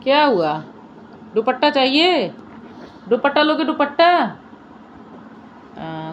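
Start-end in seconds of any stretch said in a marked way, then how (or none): 0.0-4.4 high, lively teasing questions; teasing coax. Real, not acted. Owner teasing her dog with the scarf, high and playful. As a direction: dangle the offer playfully.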